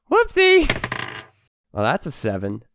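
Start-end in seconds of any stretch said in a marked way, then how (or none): 0.1-0.7 high, laughing mock whoopsie. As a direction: giggle it out like a cheeky apology. Mock apology after attack.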